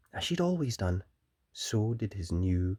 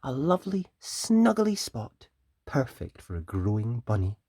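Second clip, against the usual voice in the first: cooing mother; 2 semitones higher, 4 dB louder than usual. Acted. Missus Rabbit praising the new room, cooing. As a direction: coo it like a fond mother. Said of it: "she said".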